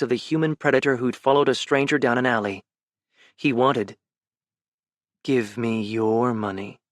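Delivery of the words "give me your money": low, slow, soft parody of the thug; mocking imitation. Ben mocking the mugger, low mock imitation. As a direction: throw his words back at him.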